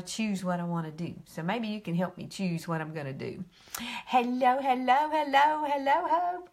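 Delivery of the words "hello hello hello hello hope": rising high hellos, louder each time; a cheery climbing hello to a viewer; sing-song greeting. Real, not acted. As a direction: call out hello higher and higher.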